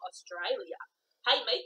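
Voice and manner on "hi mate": playful put-on Australian greeting; mock Australian accent. Greeting an Australian viewer, mock Australian accent. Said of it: "You just lost all your Australian fans".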